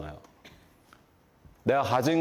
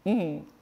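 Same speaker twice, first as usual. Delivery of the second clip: sulky hum; 4 semitones higher, much slower than usual. Retold or imitated. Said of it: "이러더니".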